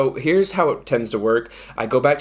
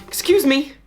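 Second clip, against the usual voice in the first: mock apology; 12 semitones higher than usual. Playful apology, intro skit.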